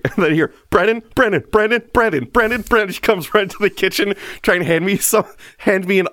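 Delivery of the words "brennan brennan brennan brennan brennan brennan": calling out. Retold or imitated. Wife calling out to him.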